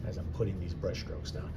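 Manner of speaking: breath held while painting; holding breath. Real, not acted. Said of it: "It sounds like I'm holding my breath because I am".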